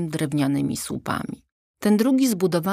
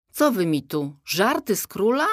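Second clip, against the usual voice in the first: indignant; 4 semitones higher than usual. Acted. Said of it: "żachnął się Bolesław".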